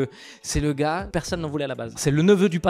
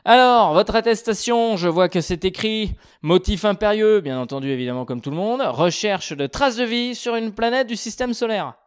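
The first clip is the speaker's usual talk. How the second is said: police officer; 3 semitones higher, 4 dB louder than usual. Pretend. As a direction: check the papers like a cop. Cop checking an attestation.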